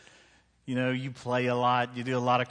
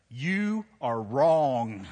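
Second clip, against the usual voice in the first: put-on teen son's flat verdict; 5 dB louder, much slower than usual. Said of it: "And he's like".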